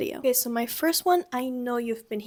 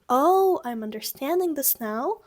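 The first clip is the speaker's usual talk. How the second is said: dawning understanding; 4 dB louder than usual. Shown as a demonstration. Teacher translates Ach so as realization. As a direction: let it dawn aloud. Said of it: "it would just be".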